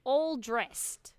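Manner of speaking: "All dressed" with no d closing "All"; careful correction. Shown as a demonstration. Correcting a mishearing, careful "All dressed". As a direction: pronounce "All dressed" carefully, first word A-L-L. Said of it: "A L".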